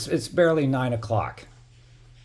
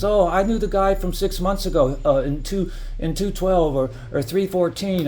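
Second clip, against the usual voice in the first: higher, mocking flattering voice; mock sweet-talking stranger; 6 semitones higher than usual. Retelling the intruders' flattery to viewers, mocking higher voice. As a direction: imitate a smooth-talking intruder buttering him up. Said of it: "I was asking him all these questions".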